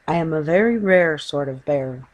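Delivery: self-important bear voice; a proud little bear, lightly voiced. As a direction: puff up with pride. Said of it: "it replied importantly".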